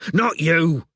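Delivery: loud snapping correction; impatient shout; bellowed. A narrator's reading. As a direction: bellow at the confused cabbie. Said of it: "he bellowed at the confused cabbie".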